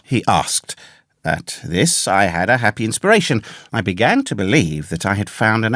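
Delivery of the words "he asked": ordinary delivery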